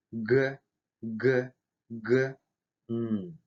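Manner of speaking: "Г, г, г" repeated, then "н" as velar ng; sound drill. Shown as a demonstration. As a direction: tap out "г" three times, then slide to ng for "н". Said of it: "произнести несколько раз звук". (упражнение: «г, г, г», затем заднеязычное «н»)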